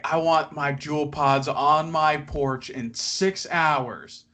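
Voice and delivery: slow, entitled demand; demanding customer. Retold or imitated. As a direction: spell out each word like an order. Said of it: "some people would be like".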